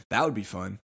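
ordinary talk, nothing marked

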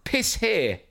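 a small daughter sounding out the words; imitating five-year-old. Father imitates his daughter reading, in a high child voice. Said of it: "my five-year-old reads it, go".

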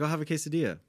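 "I'll have a quesadilla", each word sharply pronounced; crisply enunciated "quesadilla", as a proper speaker orders; sharp enunciation. Retold or imitated. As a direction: imitate precise diction on "I'll have a quesadilla". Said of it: "it was very sharp on everything he says".

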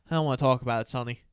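low, subdued brush-off; acted downcast refusal. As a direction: drop the pitch and voice a dejected son.

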